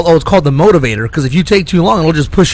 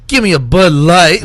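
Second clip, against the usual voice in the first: mock tough guy; 2 semitones higher, 4 dB louder than usual. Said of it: "he's trying to be like".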